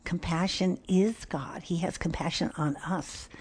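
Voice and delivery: hushed reverent whisper; moved whisper. Real, not acted. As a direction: whisper it as a quiet realization. Moved reflection on compassion.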